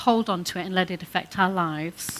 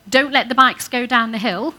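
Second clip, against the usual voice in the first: sharp, louder negative telling-off; "Don't let the bikes go down the hill" barked as a loud warning; negative command; 3 semitones higher, 9 dB louder than usual. Shown as a demonstration. Childcare worker showing the negative way, loud and sharp. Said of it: "I'm saying exactly the same thing".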